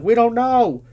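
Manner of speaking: high, loud acted protest; panicked clueless reply. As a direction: shout back like a flustered boy. Boys answer shouting officials.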